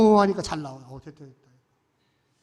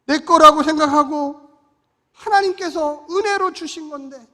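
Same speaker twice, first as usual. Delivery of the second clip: tearful repentance; 5 semitones higher, 10 dB louder than usual. Retold or imitated. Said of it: "내가 눈물로 회개하고".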